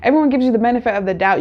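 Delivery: rattled off fast, without the curse; quick clean retake. Real, not acted. Correcting her own cursing for viewers, fast clean retake. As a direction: quickly restate it, toned down. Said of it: "I'm cursing a lot".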